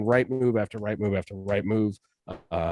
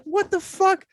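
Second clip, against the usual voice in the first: mock disbelief; slower than usual. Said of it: "And I'm like".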